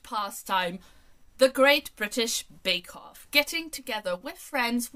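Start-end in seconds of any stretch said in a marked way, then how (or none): 1.4-3.3 excited announcement. Real, not acted. Triumphant answer to quiz question.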